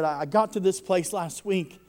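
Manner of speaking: retold emphatic quote. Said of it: "And he said".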